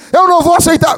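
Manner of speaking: loud, high-pitched refusal; mock righteous yelling; retold indignant shouting. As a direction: act out a public outburst of protest. Retold colleague's loud protest.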